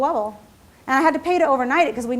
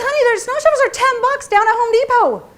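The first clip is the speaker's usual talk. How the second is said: laughing retelling; 11 semitones higher, 5 dB louder than usual. Retold or imitated. Husband's retort, teller laughing.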